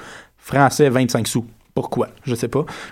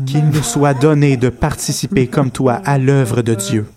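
prayer reading. Acted. Reads prayer solemnly.

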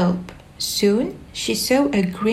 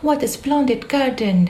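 higher, delighted exclamation; exclaimed; 5 semitones higher than usual. Acted. Alice seeing the garden, delighted and higher. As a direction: wonder at the garden. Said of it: "she exclaimed".

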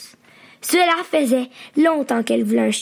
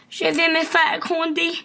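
worried thought; 4 semitones higher than usual. A narrator's reading. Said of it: "pensa Poppy".

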